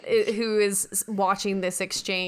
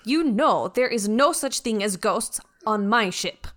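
measured, self-assured ship's mind; a hint of haughty superiority; lightly voiced imperious Beth; 4 dB louder than usual. Beth schooling the crew on the bridge, lightly haughty.

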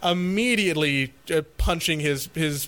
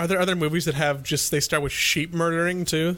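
talking while chewing gum; words round a wad of gum. Real, not acted. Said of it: "I need to stop chewing gum into the microphone".

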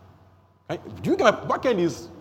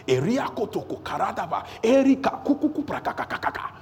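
rapid-fire tongues, rising higher; fervent tongues prayer; 4 semitones higher than usual. Shown as a demonstration. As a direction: demonstrate praying hard in tongues.

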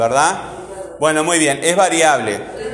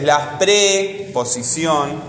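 slow, stretched "pre" in "preposición", then a break; prefijo separado; much slower than usual. Real, not acted. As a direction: split "preposición" after "pre", holding that first syllable. Separa el prefijo para explicarlo. ("preposición" lento, con "pre" alargado y separado)

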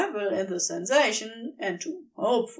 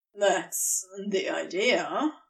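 quipping; 4 semitones lower, slower than usual. Acted. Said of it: "he quipped".

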